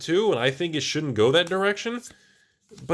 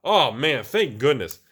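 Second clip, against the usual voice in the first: a mock-grateful hammed-up voice, louder; mock relieved voice; 5 dB louder than usual. Mocking imagined fans who cheer stores closing. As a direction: play a fake happy customer, lightly. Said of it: "No one's out there going".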